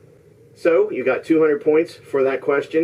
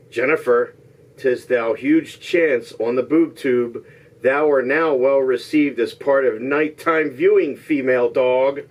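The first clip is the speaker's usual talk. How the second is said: measured mock-Shakespearean line; slow, careful reading. Host reads contestants a long disguised line, slow and careful. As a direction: take it slowly, phrase by phrase. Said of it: "I'll say it slowly".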